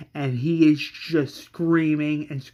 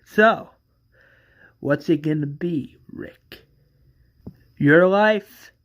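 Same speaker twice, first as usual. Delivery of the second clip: menacing villain; 4 dB louder than usual. Acted. Villain threatens Rick at gunpoint.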